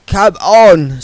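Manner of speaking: high, lightly voiced young woman; Margaret's voice. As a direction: lift the voice for the young witch.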